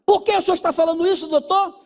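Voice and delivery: high, rapid mock-amused question; imitating laughing question. Husband starting to laugh as he questions his counsellor, imitated laughing voice. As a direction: ask it fast and loud, as if starting to laugh. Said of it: "ele começou a rir assim".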